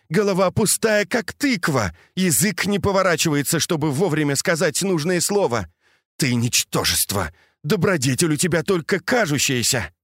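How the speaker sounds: high, biting scolding; cutting reproach. A narrator's reading. Jealous wife berates the elder lady, high biting scorn. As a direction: heap scorn on her, pitch climbing high. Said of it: "хотелось сильнее уколоть самолюбие".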